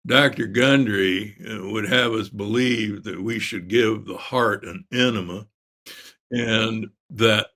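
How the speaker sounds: slow, drawn-out Texan imitation; a hint of a Southern drawl, unhurried; Texas drawl. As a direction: lightly mimic a Texas surgeon's drawl. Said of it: "in his Texas drawl".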